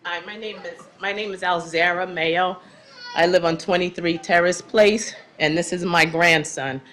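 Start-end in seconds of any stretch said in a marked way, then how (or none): 0.0-2.6 fighting back tears while giving her name; choked up, trying to stay composed; tearful. Real, not acted. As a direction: voice catching on real tears. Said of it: "I'm very emotional".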